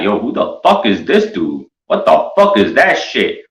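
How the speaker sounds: hammed-up street tough sizing someone up; hood guy voice. The homeboys threatening to jump the strange friend. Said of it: "They'd be like".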